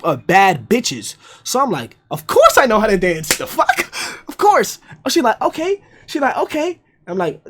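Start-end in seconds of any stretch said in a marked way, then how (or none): 2.1-4.8 high, loud, offended insistence; hammed-up incredulous reply; mock indignant boast. Indignant boast about dancing. 5.4-5.8 high rising reply; mock high-voiced acceptance; imitated girl's okay. Retold girl answers his boast. 6.4-6.8 high rising reply; mock high-voiced acceptance; imitated girl's okay. Retold girl answers, said twice.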